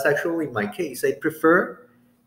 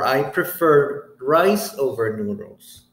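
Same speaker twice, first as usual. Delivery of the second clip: slow model answer; slower than usual. Shown as a demonstration.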